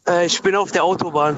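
caller on a car hands-free line; tinny phone-call sound from the motorway; bluetooth call mic. Real, not acted. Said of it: "Ich höre dich ganz schlecht".

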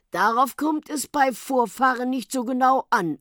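lightly voiced snake, setting them straight; lofty snake. A narrator's reading. Snake brushing off doubts about ancestors, lofty.

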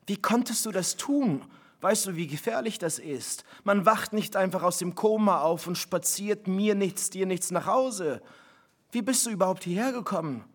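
wife lightly voiced scolding her reckless husband; upset scolding. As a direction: scold him out of fright.

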